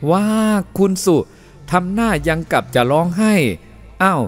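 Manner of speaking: put-on high, lively Chinese-accented directions; Chinese-accented photographer. Helper posing the couple for a photo, high accented coaxing.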